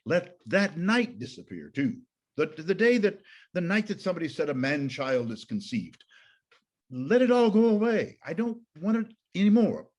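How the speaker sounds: high, loud, anguished outcry; furious Job. Acted. Teacher acting Job cursing his conception, high and loud. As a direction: let Job's rage break out against the night. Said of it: "enraged and really is furious".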